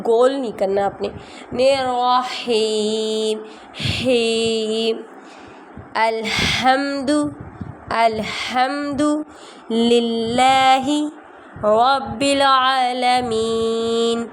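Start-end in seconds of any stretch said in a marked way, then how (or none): 1.5-5.0 the ra in رحیم kept light and not rounded. Shown as a demonstration. Teacher showing students a light ra in رحیم. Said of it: "را موٹا نہیں". 5.9-14.3 slow, drawn-out tajweed chant; slow Quran recitation. Shown as a demonstration. Teacher reciting slowly for students to follow, chanted. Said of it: "چلیں آئیں میرے ساتھ پڑھیے".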